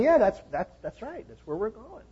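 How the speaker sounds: high, breezy yes; lightly voiced eager friend; eager agreement.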